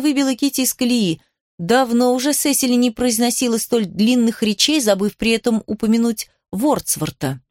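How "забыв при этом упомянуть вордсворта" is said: ordinary delivery, nothing marked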